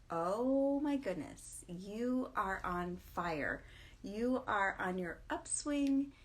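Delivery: slow, emphatic mock hype; teasingly quoting an over-the-top husband; imitating husband's excitement. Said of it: "he was calling me out as being, like, over the top".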